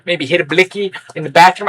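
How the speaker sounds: mocking put-on street-slang voice; imitated slang talker. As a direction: imitate slang talk, stretching words out. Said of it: "I'm sorry if you talk like that".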